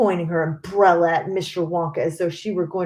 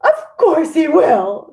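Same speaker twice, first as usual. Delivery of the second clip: much higher, louder shrill cry; furious mother shrieking in a strange higher voice; shrieked; 8 semitones higher, 7 dB louder than usual. A narrator's reading. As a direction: shriek it back without pause. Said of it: "shrieked Missus Gloop".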